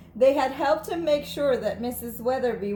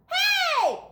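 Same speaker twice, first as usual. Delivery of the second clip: very high shouted hey; children shouting together; kids yelling; 4 dB louder than usual. A narrator's reading. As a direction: call out like a group of kids. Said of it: "yelled the kids".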